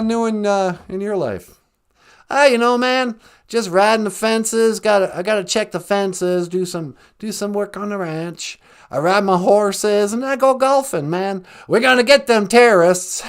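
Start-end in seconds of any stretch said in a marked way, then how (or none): 2.3-13.2 folksy Texan Bush voice; lightly voiced Bush; George W. Bush impression. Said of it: "George W. Bush".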